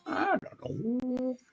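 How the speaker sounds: high, slow, soft hick reply. Retold or imitated. Answering in hick voice.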